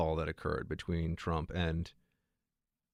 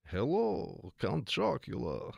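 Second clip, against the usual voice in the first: a hint of a hammed-up cereal-box vampire, pitched higher; lightly voiced bad Dracula greeting, slow on the name; Count Chocula; 5 semitones higher, slower than usual. Host testing his Count Chocula voice on listeners, mock vampire. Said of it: "doing a bad Dracula impression".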